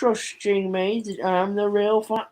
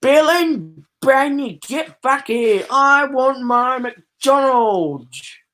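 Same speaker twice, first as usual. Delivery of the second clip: character calling out; 4 semitones higher, slower than usual. Acted.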